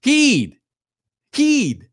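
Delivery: high, punchy play-by-play shout; high-pitched mock shout, falling sharply; imitated shouting. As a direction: call the name out like an excited commentator. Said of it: "he's shouting".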